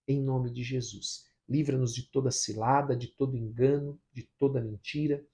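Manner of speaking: measured, earnest spoken prayer; congregational prayer. Real, not acted. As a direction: lead the people in prayer, phrase by phrase. (oração pastoral em tom contido)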